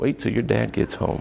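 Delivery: soft, hushed, breathy whispered delivery. Quoting mom's warning to wait till dad gets home, quiet, not yelling. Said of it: "She didn't even yell it. She just kind of".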